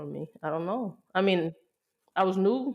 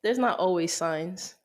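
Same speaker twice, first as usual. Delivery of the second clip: slower restatement of "not always signs"; clearer repeat. Real, not acted. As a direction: repeat "not always signs" slowly for someone who missed it.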